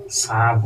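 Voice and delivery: ᱥᱟᱵ drawn out as "saab"; pronunciation demo. Shown as a demonstration. Teacher showing learners how the word sounds, ᱥᱟᱵ as slow "saab". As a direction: say ᱥᱟᱵ slowly, long a closing on b. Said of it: "ᱩᱪᱪᱟᱨᱚᱱᱚᱜ ᱠᱟᱱᱟ".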